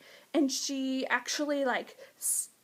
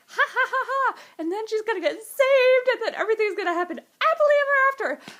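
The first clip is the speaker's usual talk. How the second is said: laughing high and loud, fast giddy glee; 8 semitones higher, 8 dB louder, faster than usual. Retold or imitated. Fan predicting a happy ending, giddy laughter. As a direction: cackle with happy certainty. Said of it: "I was like".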